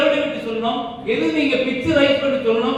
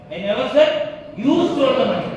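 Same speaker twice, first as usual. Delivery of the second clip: "you" stressed with a falling end; 3 dB louder, much slower than usual. Shown as a demonstration. Teacher repeats the line stressing "you". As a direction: hit "you" clearly. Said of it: "emphasise பண்ணும்போது மாறுதா".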